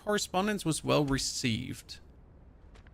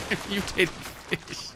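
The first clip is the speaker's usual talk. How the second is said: softer, slower amused repeat of the line; mock repeat; 5 semitones higher, 4 dB quieter, slower than usual. Shown as a demonstration. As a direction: say it back slowly, laughing at yourself.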